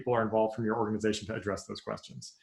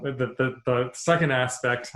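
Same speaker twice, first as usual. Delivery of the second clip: stuttering, slow restart on the; slower than usual. Real, not acted. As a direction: trip over the opening words. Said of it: "I just stuttered because I'm so excited".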